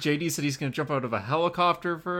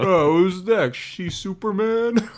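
mock sarcasm; 6 semitones higher, 5 dB louder, slower than usual. Real, not acted. Mocking spin-off names.

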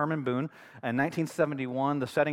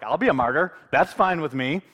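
louder, self-assured retelling of a coach; confident; 6 dB louder than usual. Retold or imitated. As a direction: state it with firm confidence. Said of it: "There's such confidence".

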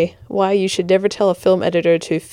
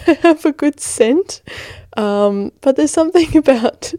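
mock flirty; 8 semitones higher, 3 dB louder than usual. To gentlemen listening, a hammed-up flirty higher pitch. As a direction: playfully sell yourself to the gentlemen.

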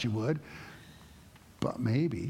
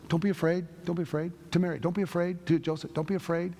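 a light, raised-pitch angel voice; angel's reassurance; 5 semitones higher than usual. Retold or imitated. Angel calming Mary and Joseph, lightly raised reassurance. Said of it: "the angel says that".

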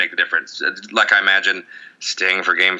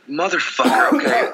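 mock resignation; 9 semitones higher than usual. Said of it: "It's like".

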